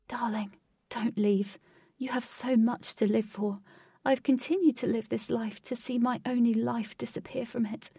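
grieving plea, lightly voiced; pleading father. Tearful father at the hospital bed, pleading. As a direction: plead tenderly with a touch of tears.

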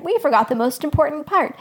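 eager shepherd remembering aloud; loud, excited recall. A narrator's reading. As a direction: blurt out the forgotten news. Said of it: "Blue Shawl said loudly".

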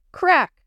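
loud sharp crack; thunder crack. A narrator's reading. Thunder sound effect in story.

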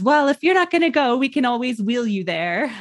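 high-pitched mock nurse; pushy nurse impression. Mother mimics nurse pressing her to go, high voice.

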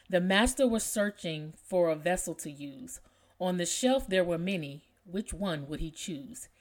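measured, expressive reading of a poem. Acted. Podcast host reads a favorite poem to listeners, expressive poem reading.

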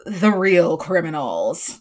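slow, weighty "the real criminals"; dramatic title. Shown as a demonstration. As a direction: announce it like a movie title. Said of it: "It's my dramatic title".

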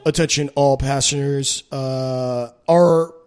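slow loud announcer voice over intercom; train announcement. Retold or imitated. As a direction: read it like a Metro PA announcement. Mock Metro intercom announcement.

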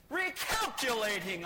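mildly exasperated mock GPS voice; irritated GPS. GPS on the next wrong turn, irritated. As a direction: push the word like a machine losing patience. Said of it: "It was screaming at us".

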